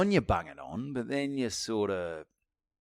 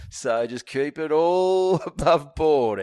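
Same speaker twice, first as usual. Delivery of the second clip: laughing warning; 5 semitones higher, 6 dB louder, much slower than usual. Retold or imitated. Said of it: "you're on speaker".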